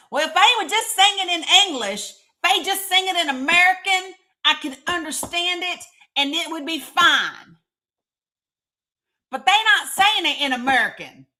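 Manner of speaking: lampooning a grumbling opera-goer in a Tennessee twang; Northeast Tennessee accent. Retold or imitated. Mocking opera-goers who want English, Tennessee accent. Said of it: "that's my Northeast Tennessee accent".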